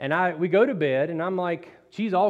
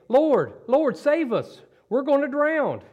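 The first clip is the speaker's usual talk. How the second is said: higher, louder panicked cry for help; frightened plea; 8 semitones higher, 4 dB louder, slower than usual. Acted. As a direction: call out like men about to drown. Disciples cry out in storm.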